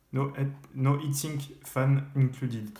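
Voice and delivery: slow English words with a mild English accent attempt. Real, not acted. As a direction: read out in a light French-flavoured English accent, slow. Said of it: "désolé pour l'accent anglais". (lecture lente avec un léger accent anglais)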